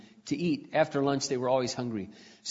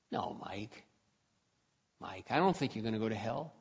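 quiet and firm; 4 semitones lower, 9 dB quieter than usual. Retold or imitated. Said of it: "and I said".

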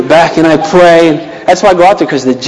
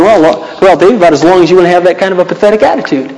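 mock God reply; faster than usual. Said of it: "God doesn't talk like that".

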